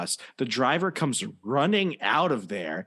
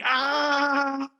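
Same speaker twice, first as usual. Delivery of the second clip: retold scream; 11 semitones higher than usual. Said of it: "we're both screaming".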